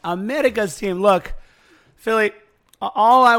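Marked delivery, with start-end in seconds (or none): 0.0-1.0 put-on copied accent, tapped R in "America's"; imitated accent. Host teasing co-host for doing the accent, imitated tapped-R accent. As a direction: echo the accent, flicking the R in "America's". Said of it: "Look at you doing the accent".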